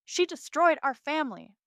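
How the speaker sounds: high, loud accusing shout; angry shout. A narrator's reading. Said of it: "Dallas shouts".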